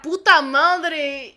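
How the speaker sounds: slow exclamation. Real, not acted. Date noticed by crowd.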